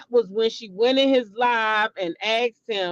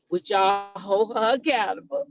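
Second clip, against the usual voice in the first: mock plea; 3 semitones lower than usual. Vlogger quotes the streamer's question to chat, low mocking. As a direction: ask it as him, lightly mocking. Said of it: "he said".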